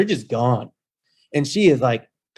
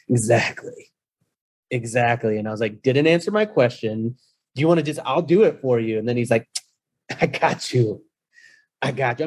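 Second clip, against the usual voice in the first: put-on drunk guy. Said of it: "how drunk this guy was".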